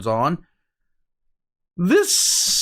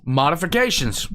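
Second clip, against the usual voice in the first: knowing mock-ominous. Cohost echoing the word with a knowing mock menace. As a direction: say it like it hides some mischief. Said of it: "That's short for do some fuckery".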